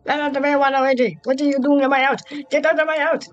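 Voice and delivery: hammed-up furious resident; mock angry homeowner. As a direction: chase him out of the house. Character voiced angrily at intruder.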